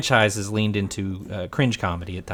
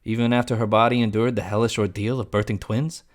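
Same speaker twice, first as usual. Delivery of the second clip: mock Jack. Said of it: "and he goes".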